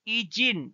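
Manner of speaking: izin with I said as a clear E sound; izin, careful Indonesian I; Indonesian pronunciation. Shown as a demonstration. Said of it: "always pronounced as E".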